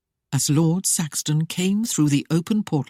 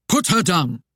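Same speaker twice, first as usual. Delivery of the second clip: harsh command; 3 dB louder than usual. Acted. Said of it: "commanded in a harsh tone".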